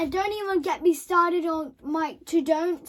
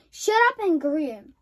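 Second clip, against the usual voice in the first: bossy order; 5 dB louder, slower than usual. Acted. Boss barking orders.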